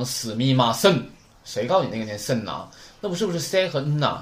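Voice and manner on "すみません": すみません with せ and ん split apart; wrong reading. Shown as a demonstration. Teacher mocks the wrong すみません, with せ and ん split. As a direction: break せん into two separate sounds, wrongly. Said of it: "不要读成".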